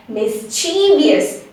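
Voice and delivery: "mischievous" as "mis-CHEE-vi-us"; common mispronunciation. Shown as a demonstration. Teacher shows how many of us say it, mispronounced. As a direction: drag the middle of "mischievous" into "chee", end "vius". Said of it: "many of us say it as".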